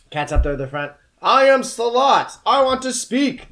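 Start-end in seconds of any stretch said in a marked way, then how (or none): 1.2-3.5 high, slow booming demon cat; slow booming creature voice. Acted. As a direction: boom it out like an otherworldly cat. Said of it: "the cat says in a booming voice".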